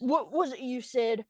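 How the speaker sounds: low, slow villain's question; imitated outlaw menace, slow and low; menacing villain. Villain's line redone in character.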